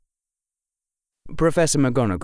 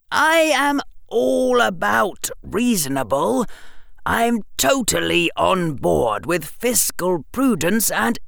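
put-on lightly raised boyish voice, musing; a bright boy working it out aloud; clever boy; 10 semitones higher than usual. A narrator's reading. Harry voiced by narrator.

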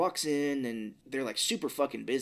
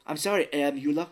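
put-on light, jokey German accent, louder; mock German accent; 2 semitones higher, 5 dB louder than usual. Host imitating the apology to the investor, mock German accent. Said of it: "like he's from an old Germany".

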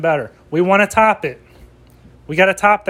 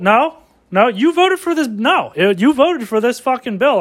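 hammed-up candidate jabbing; mock debate attack; 6 semitones higher than usual. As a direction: go after the rival in mock outrage.

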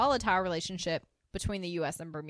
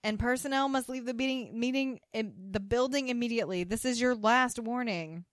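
raised-pitch imitation of a shouted warning; mock yelling; 5 semitones higher than usual. Podcaster voicing a fake envoy's evacuation order, mock yelling. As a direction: deliver a mock official ultimatum, voice pitched up. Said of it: "you're basically yelling into, like, the".

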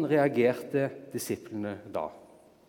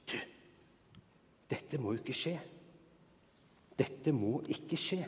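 hushed aside; 11 dB quieter than usual. Acted. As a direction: pull him aside and plead under your breath. Peter takes Jesus aside privately. (Peter hvisker bønnfallende til Jesus)

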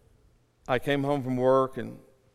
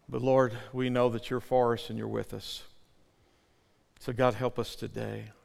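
prayer. Real, not acted. Pastor praying for his people, subdued prayer. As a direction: pray calmly for those who hurt.

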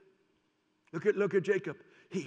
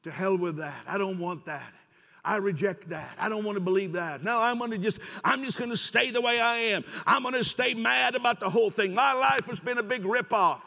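defiant refusal; 3 semitones higher, 6 dB louder than usual. Pretend. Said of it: "you can say".

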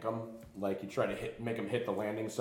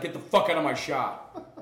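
higher, louder, laughing through it; retelling Glenn kicking them out, laughing; laughing command; 7 semitones higher, 9 dB louder than usual. Retold or imitated. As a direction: bark it while cracking up. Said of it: "He's like".

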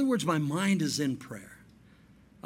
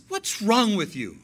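1 brother annoyed; 3 semitones higher, 5 dB louder than usual. Retold or imitated. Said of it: "He says".

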